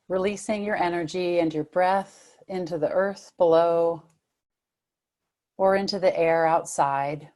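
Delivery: unhurried meditation guidance with long pauses; guided meditation. Real, not acted. Meditation teacher settling listeners into body and breath, guided meditation. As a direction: lead them gently, phrase by phrase, leaving room to breathe.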